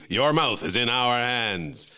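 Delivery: ad slogan read. Acted. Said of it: "makers of Wexler's Beef".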